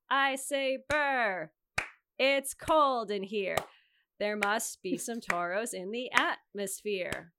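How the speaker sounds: slow, loud sing-song cheer on the two and four; kindergarten teacher voice. Shown as a demonstration. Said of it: "I sound like Miss Bree in my teacher voice".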